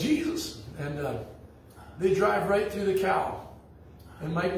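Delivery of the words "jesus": high, breathless cry of "Jesus!"; retold yell. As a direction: yelp it as the cow looms in the fog. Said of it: "One of them yells".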